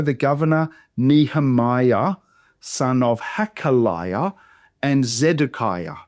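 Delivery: names sounded one syllable at a time; slow down on "Nehemiah", "Hakaliah", "Zedekiah", each syllable distinct. Shown as a demonstration. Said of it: "the names as one syllable at a time".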